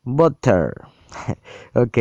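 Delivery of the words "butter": Butter echoed as boter with a Spanish r; a learner's try at English Butter; imitating English. Shown as a demonstration. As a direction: copy Butter from the app, as a learner. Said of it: "No soy bueno haciendo pronunciación de inglés".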